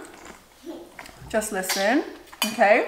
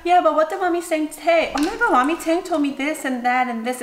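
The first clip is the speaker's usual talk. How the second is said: higher gossipy voice; mock gossip; 5 semitones higher than usual. Friends A and B gossiping about Mommy Tang, higher gossip voice. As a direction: gossip eagerly like a schoolgirl. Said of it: "And they'll be like".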